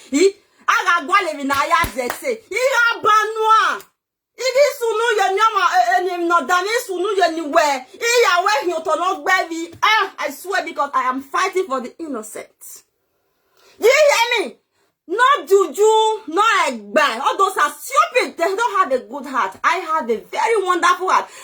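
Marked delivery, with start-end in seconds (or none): 2.5-7.4 lamenting to the Oba, crying shout; wailing shout. Real, not acted. Heated rant about the Oba. 13.8-17.2 demanding shout. Real, not acted. Challenging listeners directly.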